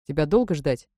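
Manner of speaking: lightly voiced stern lord; a hint of threat in a lord's voice; menacing. A narrator's reading. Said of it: "грозно спросил".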